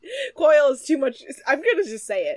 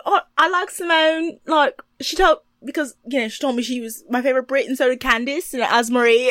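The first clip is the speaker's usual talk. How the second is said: mock British accent; 3 dB louder than usual. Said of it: "Ashley's like".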